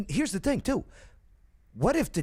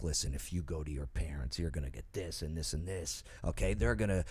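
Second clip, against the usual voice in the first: mock stern teacher; 10 semitones lower, 4 dB quieter than usual. Voicing anti-gay teacher to kid.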